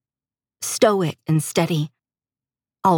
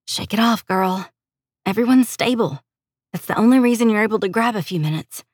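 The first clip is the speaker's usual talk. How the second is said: higher-pitched brisk self pep talk; heroine rallying herself; 4 semitones higher than usual. Acted. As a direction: talk yourself back into shape, pitched up.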